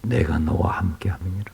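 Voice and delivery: a soft unvoiced whisper of God's promise; whispered scripture. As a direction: breathe the verse out in a hush.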